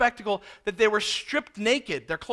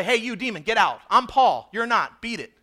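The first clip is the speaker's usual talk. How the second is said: punchy, louder mock order to a demon; bossy show of throwing a demon out; brash mock command; 5 dB louder than usual. Preacher mimicking what Paul didn't say to the demon, brash and punchy.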